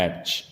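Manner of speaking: एच ending in a "ch" sound; children's mispronunciation. Retold or imitated. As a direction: copy the mistake, एच with a final CH. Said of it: "कई बच्चे इसको बोलते हैं". (एच, बच्चों वाली गलती, अंत में 'च')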